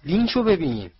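loud alarmed call; shouting. A narrator's reading. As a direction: yell to point something out. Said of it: "هری فریاد زد".

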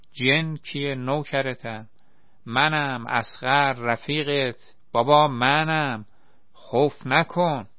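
slow, soothing plea to calm him; reassuring. Acted. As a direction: gently talk a scared friend down. Calming a frightened friend.

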